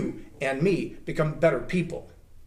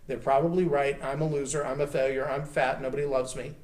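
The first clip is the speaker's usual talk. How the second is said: quiet, deflated self-talk; self-pitying inner voice; 3 semitones lower, 4 dB quieter than usual. Retold or imitated. A speaker voicing his own self-doubt, soft and deflated. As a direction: let it sink, beaten down. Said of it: "fall back into that mode and go".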